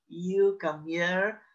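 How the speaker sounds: slow, drawn-out mock summons; lightly mocked slow command. Shown as a demonstration. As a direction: stretch out a half-hearted order. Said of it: "don't use your little finger".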